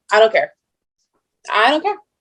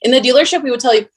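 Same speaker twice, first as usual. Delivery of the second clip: normal talking voice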